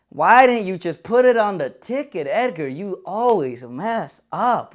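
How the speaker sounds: a hint of a nagging coworker; coworker scolding. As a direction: nag him like a condescending boss. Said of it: "prompted my friend to begin his onslaught".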